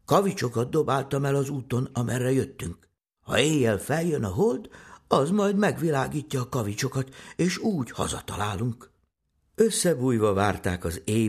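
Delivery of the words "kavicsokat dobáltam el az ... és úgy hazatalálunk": lightly voiced little boy, a bit higher; higher, lively child's explanation; boy explaining his plan. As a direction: reassure your sister like an eager boy. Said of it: "szólt Jancsi".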